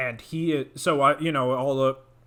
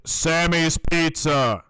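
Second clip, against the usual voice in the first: slow placeholder; much slower than usual. Shown as a demonstration. Placeholder name said slowly.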